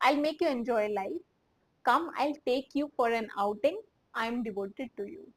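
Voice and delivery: slow, spaced-out recap of the lines. Shown as a demonstration. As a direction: read the whole translation slowly. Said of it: "तो".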